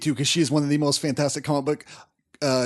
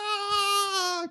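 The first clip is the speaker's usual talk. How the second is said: high breathy fanboy squeal; a soft, giddy squeak of joy; 6 dB quieter than usual. Retold or imitated. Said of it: "and I was like".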